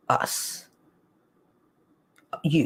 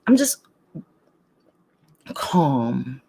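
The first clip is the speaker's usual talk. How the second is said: calm morning voice; 6 semitones lower, slower than usual. Shown as a demonstration. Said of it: "I'm still calm".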